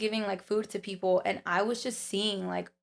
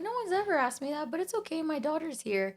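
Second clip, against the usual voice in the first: put-on old lady voice; 8 semitones higher than usual. Sweet old lady declining help.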